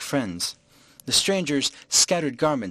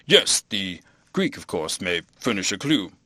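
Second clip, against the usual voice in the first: hesitant, drawn-out stalling; uncomfortable vicar; 3 semitones lower than usual. A narrator's reading. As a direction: stall awkwardly, stretching the first words. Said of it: "feeling suddenly very uncomfortable".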